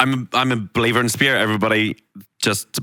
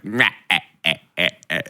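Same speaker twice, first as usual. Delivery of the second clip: Snow White witch cackle; 6 semitones lower, faster than usual. Retold or imitated. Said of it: "the Snow White witch".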